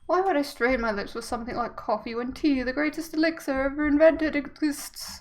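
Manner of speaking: mildly pompous tea lover; grandly offended on behalf of tea. Acted. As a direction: declaim it with a touch of pomposity. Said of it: "tiny bit less of the pompous attitude".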